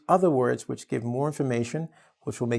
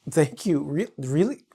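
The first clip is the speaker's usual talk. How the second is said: pleasantly surprised; 2 semitones higher than usual. Retold or imitated. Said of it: "so she'll be like".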